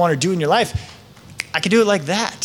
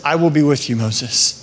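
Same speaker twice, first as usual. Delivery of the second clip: lower, calm voice of God, sinking lower on the name; reassuring God; 5 semitones lower than usual. Retold or imitated. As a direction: reassure Moses, deep and calm. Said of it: "God says".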